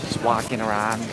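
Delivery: light Boston accent, dropped r. Shown as a demonstration. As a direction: say it wicked Boston-style. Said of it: "There's my wicked Boston accent".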